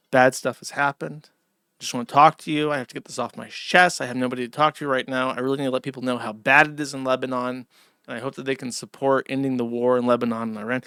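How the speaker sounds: quick, low, earnest mock confession; dropping the act. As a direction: confide plainly, as if out of character. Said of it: "cut all this off and just be like".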